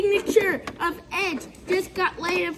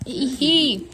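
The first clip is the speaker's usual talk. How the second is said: excited ringside wrestling commentary; play-by-play commentary; 2 semitones lower than usual. Acted. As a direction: call the match live, hyped up.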